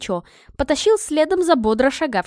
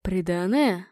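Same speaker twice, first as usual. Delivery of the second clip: slightly musing, understated question; mildly intrigued beggar; tasting the word; 3 semitones lower, slower than usual. Acted. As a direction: try the word out slowly in thought. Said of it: "словно пробовал это слово на вкус".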